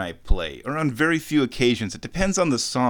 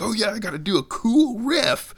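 much higher, hammed-up eager voice; over-excited; 9 semitones higher than usual. Guitarist mocking his own excitement before a riff, over-excited high voice. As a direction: act giddy about showing off, pitched way up. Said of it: "because I'm so excited".

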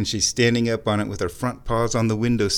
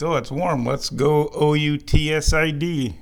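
cat's imagined voice; 4 semitones higher, 3 dB louder than usual. Pretend. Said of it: "I know you think".

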